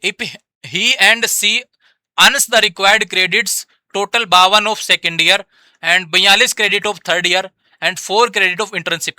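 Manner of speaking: very slow, word by word, reading the notice; slow reading aloud. Shown as a demonstration. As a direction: spell the rule out for the students. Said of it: "देखो ये line लिखी हुई है यहाँ पर".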